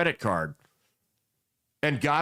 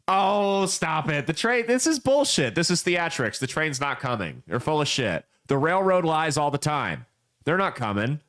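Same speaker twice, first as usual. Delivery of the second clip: mock scoffing. Picnicker on the tracks scoffing at a passerby, mocking. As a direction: scoff at the warning like it's theatrics.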